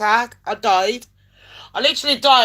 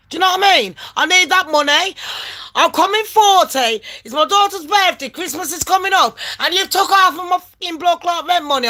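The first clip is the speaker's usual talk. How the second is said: retold indignant plea; 6 semitones higher than usual. Retold plea for money back.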